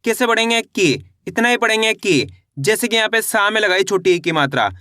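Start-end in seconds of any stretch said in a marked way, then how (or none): 0.6-1.1 की with a briefly held, falling vowel; short i vowel. Shown as a demonstration. Teacher showing the short i matra, short की. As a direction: say की without drawing out the vowel. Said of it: "कम खींच के किया जाता है".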